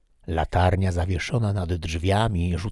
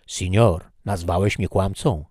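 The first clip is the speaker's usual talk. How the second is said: offended Toledo; 4 dB louder than usual. Acted. Toledo insulted.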